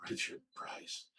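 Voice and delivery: barely audible whisper, imitating a weak patient; faint whispered answer. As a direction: whisper it as a sick person would. Imitating sick partner answering faintly.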